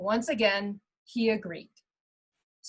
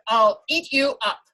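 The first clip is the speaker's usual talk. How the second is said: louder, menacing troll voice; troll threat; 6 dB louder than usual. Acted. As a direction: growl it out like a hungry troll. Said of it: "the troll replied".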